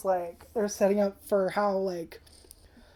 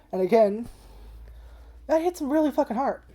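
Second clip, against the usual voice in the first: tearful; 6 semitones higher, 4 dB louder than usual. Real, not acted. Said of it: "Yes, I'm crying".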